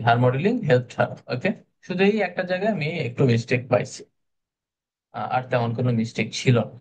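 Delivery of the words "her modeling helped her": slow correct version. Shown as a demonstration. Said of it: "আননেসেসারি".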